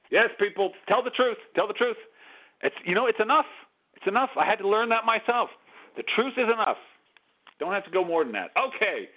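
scratchy phone line; speaking over a crackly telephone. Real, not acted. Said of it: "my scratchy telephone voice".

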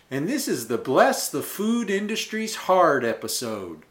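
fake Southern accent. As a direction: ham up the Southern accent on the episode title. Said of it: "that fake Southern accent is tiring to do".

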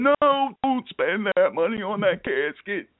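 a playful take on the late brother from heaven; a hint of the brother's voice; imitating his brother. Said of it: "so I'm doing an imitation".

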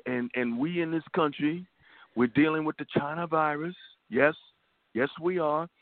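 a light Trump impersonation, voice barely changed; Trump impression. Host mocking Trump on the radio, a light Trump voice. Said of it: "I'm try to do the best Trump".

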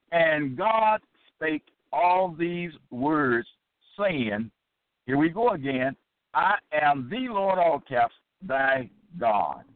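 slow, deliberate Bible reading; solemn, drawn-out recitation of scripture. Acted. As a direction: read the verse out weightily, word by word. Reads scripture aloud.

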